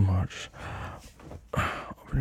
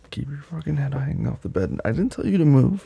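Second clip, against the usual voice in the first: stern commanding; 7 semitones higher, 5 dB louder than usual. Acted. Dominant scolding partner.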